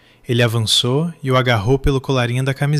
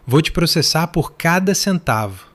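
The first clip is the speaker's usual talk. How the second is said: furious threat; 5 semitones higher than usual. A narrator's reading. Father keeps shouting threat.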